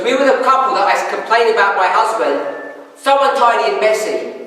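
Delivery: mildly acted cheerful wife; a touch of gleeful recognition; beaming with smiles. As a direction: retell it with a happy lift. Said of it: "she's beaming with smiles".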